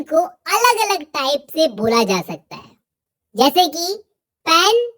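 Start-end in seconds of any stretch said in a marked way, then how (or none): 4.5-4.9 पेन with a strong puff of air on the P; aspirated P opening पेन. Shown as a demonstration. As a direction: say पेन, breath bursting out after the P. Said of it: "पी पर strong puff पड़ रहा है".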